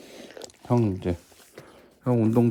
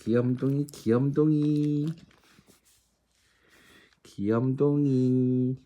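slow doting; 2 semitones higher, slower than usual. Real, not acted. Doting on dog.

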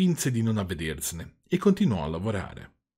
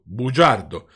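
angry insult; 7 dB louder, slower than usual. Acted. Carpenters quarrel over the name.

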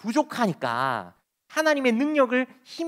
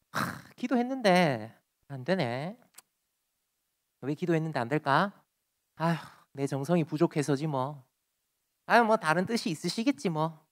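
grumbling; 3 semitones lower than usual. Retold or imitated. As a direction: grumble half to yourself. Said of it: "툴툴 거려봅니다". (혼잣말로 툴툴거리는 말투)

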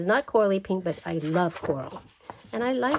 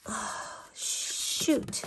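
breathless whispered "shoot"; whispered oops; 3 semitones higher, 8 dB quieter than usual. Real, not acted. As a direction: mutter it under your breath. Quiet unvoiced exclamation.

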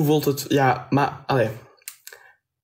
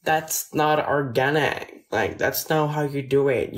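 slow, put-on American accent; lightly exaggerated American girl talk. Shown as a demonstration. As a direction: demonstrate a girlish American accent. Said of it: "a fucking girl's voice when I'm talking".

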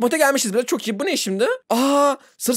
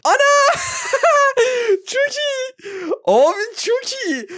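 delighted squeal; slower than usual. Real, not acted. Trick works, delighted outburst.

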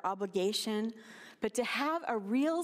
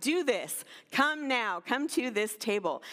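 firm parental summons; clear, to the point. Acted. Parent calling the kids to the table, clear and to the point. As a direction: call them in, no room for debate. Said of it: "our parents were clear and to the point".

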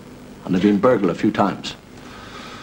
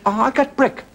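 higher, sing-song mock Japanese accent; 11 semitones higher than usual. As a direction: play the Japanese dog breeder with a hammed-up accent. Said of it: "there's a Japanese fellow".

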